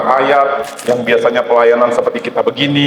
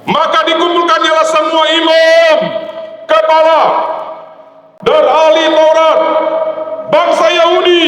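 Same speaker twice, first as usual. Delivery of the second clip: deliberate shout. Shown as a demonstration. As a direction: shout it out to wake the congregation. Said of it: "Saya sengaja teriak-teriak supaya pada bangun".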